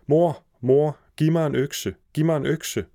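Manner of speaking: high, urgent call for help; boy shouting. A narrator's reading. Hans calling to his mother for an axe, shouting. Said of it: "Så råbte han".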